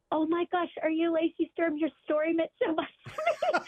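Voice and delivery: lightly acted fan excitement; starstruck fan. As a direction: gush to someone you admire. Acting out an excited fan approaching.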